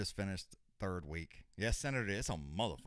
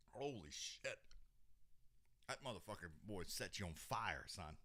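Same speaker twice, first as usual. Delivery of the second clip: much softer, breathy exclamations; hushed exclamation; 11 dB quieter than usual. Real, not acted. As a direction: gasp it out quietly while your mouth burns. Mouth burning from spice.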